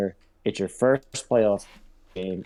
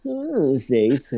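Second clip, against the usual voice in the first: mock Brady; 5 semitones higher, 3 dB louder, slower than usual. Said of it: "be Mister Tommy, like".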